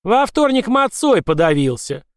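slow, loud high incantation; leprechaun spell. Acted. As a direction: cast the curse slowly. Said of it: "произнёс заклинание лепрекон".

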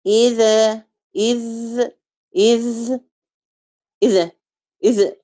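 إذا and إذ with the ذال shaking; qalqala fault. Shown as a demonstration. Teacher repeating the faulty trembling ذال. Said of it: "حصلت رعدة كده في اللسان".

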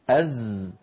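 "أز" as a voiced buzzing z, lips relaxed; plain Zay. Shown as a demonstration. Teacher setting a model for Sad, plain buzzing "أز". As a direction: hum a light unrounded "أز". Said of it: "فكما نطق السين والزاي بقوله".

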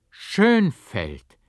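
high, loud cry of a name; astonished cry. A narrator's reading. Monk recognises the barber at his door, astonished cry. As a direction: call out the name in amazement. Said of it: "rief ich voll Verwunderung".

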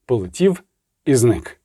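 ordinary delivery, nothing marked

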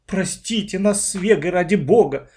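a mildly plaintive begging apology; plaintive plea. A narrator's reading. Owner begs the children's pardon, mildly plaintive. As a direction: beg forgiveness, lightly pitiful. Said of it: "жалобно взмолилась хозяйка".

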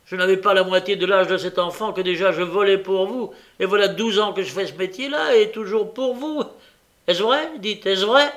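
loud, high, accusing tirade; heated outburst climbing to a high challenge; exasperated. A narrator's reading. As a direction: hurl the charge and demand an answer. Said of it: "s'écria Nancy exaspérée".

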